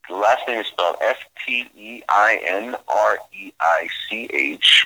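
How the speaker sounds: letters spelled one by one; spelling it out. Shown as a demonstration. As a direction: spell out each letter clearly. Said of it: "spell that again for him".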